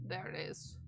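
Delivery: whispered find. Real, not acted. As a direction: whisper it as you spot it. Phrase said twice, first whispered.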